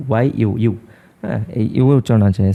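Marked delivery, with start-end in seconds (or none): 0.1-0.7 ওয়াই ইউ, ইউ spoken as a y-glide yoo; sound of European's start. Shown as a demonstration. Teacher repeats the yoo sound of European for students. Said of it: "এখানে উচ্চারণ আছে ইউ".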